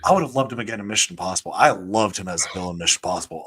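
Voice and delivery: ordinary talk, nothing marked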